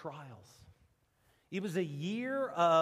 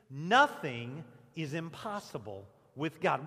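congregation call-and-response; 4 semitones lower, 5 dB louder than usual. Shown as a demonstration. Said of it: "Will you say that with me?".

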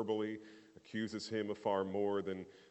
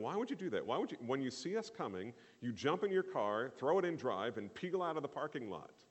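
higher-pitched, mildly indignant disbelief; swooping, higher-pitched "why would you?"; incredulous questioning; 4 semitones higher than usual. Acted. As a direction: question him as if baffled by what he did. Mind reacting to man driving off.

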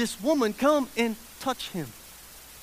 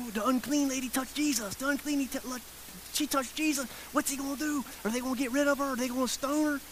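scandalized onlookers; 3 semitones higher, 6 dB quieter, faster than usual. Retold or imitated. Onlookers gossiping about the unclean woman, scandalized. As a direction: imitate a shocked crowd passing it along. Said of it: "all I can see some people going".

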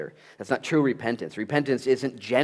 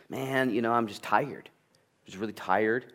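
whiny excuse; 3 semitones higher than usual. Retold or imitated. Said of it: "repentance isn't excuse making".

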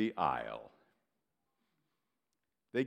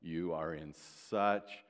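sarcastic; 6 semitones lower than usual. Real, not acted. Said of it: "Sarcasm implied".

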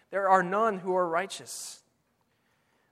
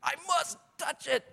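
put-on high, strained, softer child voice; hammed-up compulsive kid, pitched way up; defiant child; 8 semitones higher, 6 dB quieter than usual. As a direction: mimic a child who cannot resist. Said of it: "how would they respond?".

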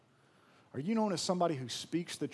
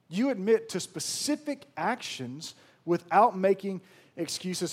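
emphatic repeat; 3 semitones higher, 4 dB louder than usual. Shown as a demonstration. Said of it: "repeated louder".

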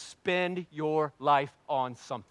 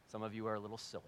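quieter, gentler take, softer; softened rewording; 3 semitones lower, 9 dB quieter, much faster than usual. Shown as a demonstration. Pastor softens his teasing of the congregation, quietly. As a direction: take the sting out, softer and lower.

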